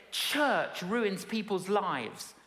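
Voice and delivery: lightly voiced sullen young woman; sullen girl. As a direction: drag it out like a bitter girl. Girl voiced in retold story.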